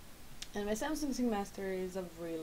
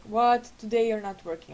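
surprised; 9 dB louder than usual. Retold or imitated. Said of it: "I was like".

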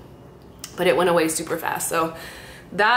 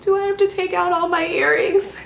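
anxious; 11 semitones higher than usual. Retold or imitated. Anxious question to doctor.

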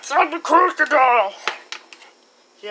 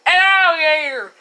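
startled cry; 4 dB louder than usual. Acted. Repeating the scare.

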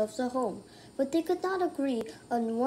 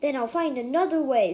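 wolf shouting; 3 dB louder, faster than usual. Acted. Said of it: "the wolf shouted".

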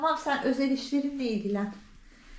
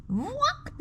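drawn-out mock quack; imitated cat quack; 10 semitones higher than usual. Owner shows how the cat quacked, imitating it. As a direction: slowly mimic the cat's quack. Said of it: "Aynen böyle yaptı".

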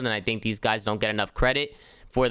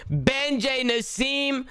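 hushed slow golf commentary building to a high excited call; golf commentator; 3 semitones higher, slower than usual. Pretend. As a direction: call the putt like a TV golf announcer. Mock golf commentary on putt.

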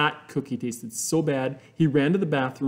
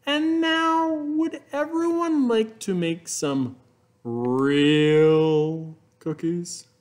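teacher voice; much slower than usual. Acted. Teacher asking class, inviting. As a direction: draw out real cookies like a treat. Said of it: "the teacher said".

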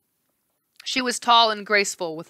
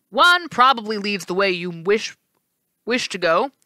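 encouraging; 2 semitones higher, 4 dB louder than usual. Acted. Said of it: "the right face said encouragingly".

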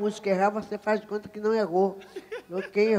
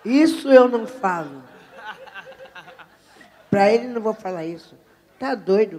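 loud, emphatic mock outrage; indignant refusal; 12 dB louder than usual. Singer refusing the interpreter's prompt, loudly indignant. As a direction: refuse point-blank, louder, for comic effect. Retold refusal to say foreign words.

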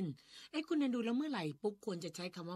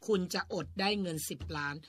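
emphatic example; 8 dB louder than usual. Shown as a demonstration. Repeats her example sentence over him.

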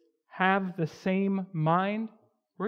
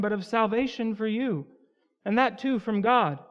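scripture reading; 2 semitones higher than usual. Acted. Reads Philippians passage aloud.

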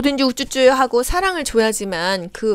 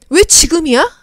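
high, loud demand of why now; mock angry patient shouting; angry outburst; 8 semitones higher, 5 dB louder than usual. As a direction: cry out against the unfairness. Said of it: "이거 분노입니다".

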